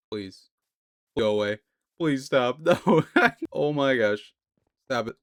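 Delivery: panicked pleading, laughing; being chased. Real, not acted. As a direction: beg it to back off, flustered. Being chased by the bird boss.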